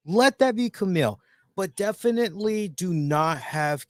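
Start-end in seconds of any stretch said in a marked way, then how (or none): 0.1-1.2 high-pitched mock laugh carried into speech; Poppy impression. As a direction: imitate a gleeful commercial pitchman, pitched way up. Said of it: "Poppy, Poppy Lab said".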